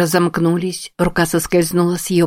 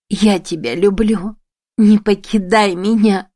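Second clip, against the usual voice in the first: pleading cry; 3 semitones higher than usual. A narrator's reading. Emi begging dying Shiro.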